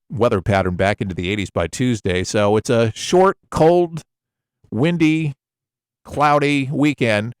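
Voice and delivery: easygoing radio DJ patter; casual DJ voice. Shown as a demonstration. Radio host demoing casual DJ weather patter. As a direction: chat it out like a local DJ on air. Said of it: "just that casual voice".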